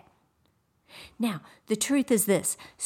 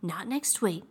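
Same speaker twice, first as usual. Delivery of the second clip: scripture quote; 3 semitones higher than usual. Retold or imitated. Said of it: "the Bible says".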